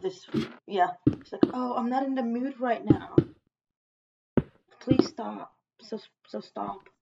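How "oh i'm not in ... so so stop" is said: slow, whiny-sulky mimicry of refusal; mock reluctance. Retelling someone not in the mood, mock reluctance. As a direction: act out someone slowly begging off.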